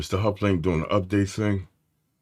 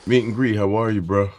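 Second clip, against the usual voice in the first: louder, higher welcome to the room; hype greeting; 5 semitones higher, 5 dB louder than usual. Real, not acted. Host welcoming viewers to the meet and greet, pumped. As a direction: greet them like they just walked in.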